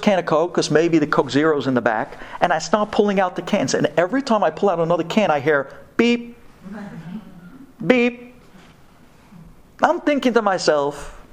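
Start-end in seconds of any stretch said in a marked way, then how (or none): 6.0-8.4 fridge beep. Retold or imitated. Imitating fridge sensor.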